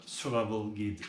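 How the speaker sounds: self-mocked French-accented English; English accent attempt. Real, not acted. Unboxer reads the booklet title to viewers, in an English accent attempt. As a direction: read it in your best homemade English accent. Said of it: "Avec mon super accent anglais".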